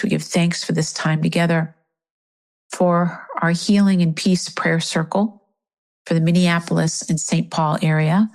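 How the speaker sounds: spoken prayer in an even, measured voice; prayer out loud. Real, not acted. Circle leader praying for Minneapolis and Saint Paul, spoken prayer. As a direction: offer thanks and petition aloud. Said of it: "I am gonna say my prayer out loud".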